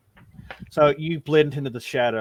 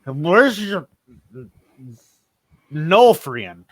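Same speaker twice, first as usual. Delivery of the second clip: put-on drunkard asking; 3 semitones higher, 9 dB louder, much slower than usual. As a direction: stumble forward and slur the question. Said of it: "stumbles forward and says".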